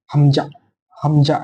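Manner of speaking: হামজা said briskly, not drawn out; quick হামজা. Shown as a demonstration. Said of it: "উচ্চারণটা একটু তাড়াতাড়ি হবে".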